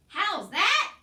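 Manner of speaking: high, loud shouted question; shouting. A narrator's reading. Mig shouts back at Cook, loud and high. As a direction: yell it like she can't hear. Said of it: "shouted Mig".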